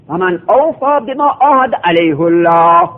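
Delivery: علیه الله with the rounded هُ and a heavy الله; Quranic recitation. Shown as a demonstration. Teacher recites the verse again for the class. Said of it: "اصل لغتش این است که به ضم خونده شود".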